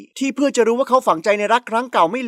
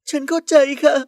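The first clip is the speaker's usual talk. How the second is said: higher voice, still upset from crying; tearful; 6 semitones higher, 4 dB louder than usual. A narrator's reading. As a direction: answer through leftover tears. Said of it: "ด้วยใบหน้าที่ยังเลอะคราบน้ำตา". (เสียงเครือหลังร้องไห้)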